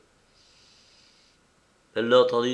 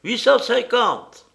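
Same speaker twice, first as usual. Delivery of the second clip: higher, louder, slow counterbid; sharp retort; 13 semitones higher, 7 dB louder than usual. A narrator's reading. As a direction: snap back a higher bid. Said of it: "Une autre voix riposta". (riposte vive et forte)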